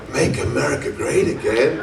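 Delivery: light African accent imitation. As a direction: say it the way the African cashier did, lightly put on. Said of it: "with a thick African accent".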